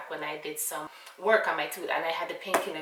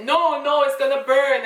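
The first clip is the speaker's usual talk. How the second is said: put-on pleading child; 6 semitones higher, 8 dB louder than usual. Child fearing hot aloe.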